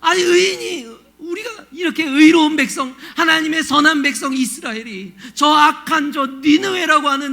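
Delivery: high, loud, wailing protest to God; acted outcry, stretched words building into indignant questions; anguished questioning. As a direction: plead and demand an answer, near tears. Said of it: "그렇게 하는 거예요".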